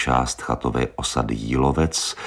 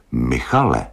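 stern. Acted. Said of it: "řekla přísně".

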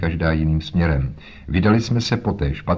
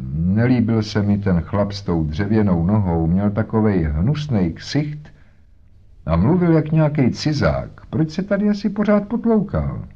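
lightly voiced boatman's wife; 2 semitones higher than usual. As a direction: talk like a harried mother. Voices Mrs Smith.

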